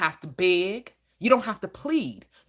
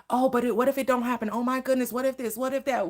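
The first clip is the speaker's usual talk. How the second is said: mock anxious worrier; 3 semitones higher, faster than usual. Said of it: "You talking about".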